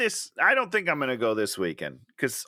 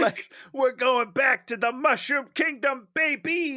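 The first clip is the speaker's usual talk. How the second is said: excited; 10 semitones higher than usual. Acted. Joining the excited cheer.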